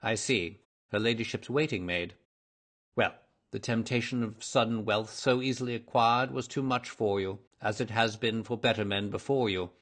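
measured, mildly reproving detective; hint of a stern investigator; lightly voiced detective, accusing. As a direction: lay out the accusation with controlled authority.

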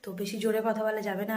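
soft late-night voice; speaking softly. Real, not acted. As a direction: keep it low, someone's asleep nearby. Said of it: "আমি একটু আস্তে আস্তে কথা বলছি".

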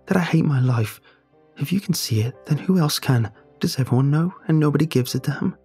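choking up. Acted. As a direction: force the words past a lump in the throat. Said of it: "She chokes out her words".

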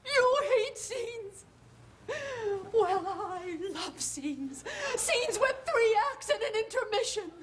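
half-laughing, half-crying outburst; tearful hysteria. Acted.

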